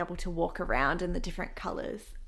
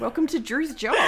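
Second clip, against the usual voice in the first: booming sing song welcome; 5 semitones higher, 7 dB louder than usual. Pretend. Echoes the welcome, laughing.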